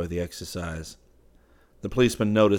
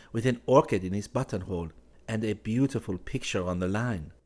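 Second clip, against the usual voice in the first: put-on young Parisian woman; 2 semitones higher than usual. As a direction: play her as poised and a little mocking.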